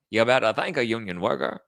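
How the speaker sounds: politician's put-on accent; Kamala Harris accent. Host making fun of the candidate, exaggerated put-on accent. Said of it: "she was such a bad candidate".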